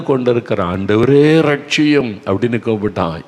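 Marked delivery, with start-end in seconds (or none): 0.6-2.1 loud, slow, higher plea like a man sinking in the sea; desperate cry for help. Acted. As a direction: cry out ஆண்டவரே stretched and raised, pleading. Drowning disciple cries for rescue.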